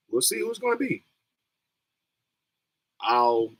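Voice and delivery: ordinary talk, nothing marked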